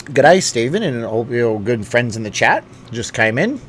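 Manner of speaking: lightly attempted Australian accent; bad Australian accent. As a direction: greet them in a half-hearted Aussie accent. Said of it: "that's my bad Australian accent".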